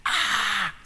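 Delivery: put-on high, slow child's wail for mummy; little kid crying out. Preacher voicing a hurt child calling for mummy, high and wailing. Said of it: "So a little kid shouts".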